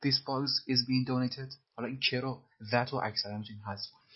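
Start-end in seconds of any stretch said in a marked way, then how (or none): 0.1-1.5 "this box is being donated" said very slowly; very slow drill. Shown as a demonstration. Teacher repeats the passive line very slowly.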